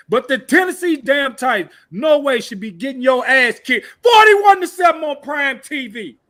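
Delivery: real frustrated outburst; angry fan rant. Real, not acted. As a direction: yell it like a fed-up fan.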